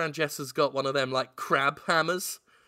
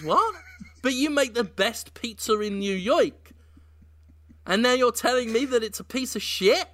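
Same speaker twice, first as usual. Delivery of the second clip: surprised disbelief; 6 semitones higher than usual. Acted. Pattinson reacts to Dafoe's insult.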